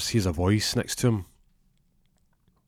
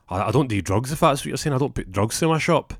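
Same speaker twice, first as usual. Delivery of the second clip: higher-pitched, stammered denial; defensive protest; 5 semitones higher, 3 dB louder than usual. Acted. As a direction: protest your innocence, pitch climbing. Accused shop owner protests his innocence.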